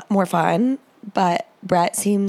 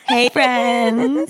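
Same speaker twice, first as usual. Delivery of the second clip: burping through the greeting; talking while burping; 4 semitones higher than usual. Real, not acted. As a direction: say it mid-burp. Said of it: "That was a bad burp".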